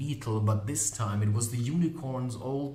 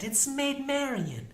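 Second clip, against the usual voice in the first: high-pitched teasing woman's voice; mocking Molly Grew. Molly catching the magician leaving early, high and mocking. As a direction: tease the runaway in a much higher voice.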